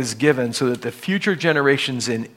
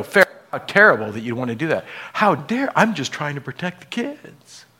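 mock protester; faster than usual. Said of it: "And you can't go".

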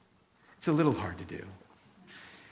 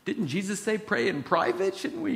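mock embarrassed excuse; 2 semitones higher, 3 dB quieter than usual. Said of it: "And you're like".

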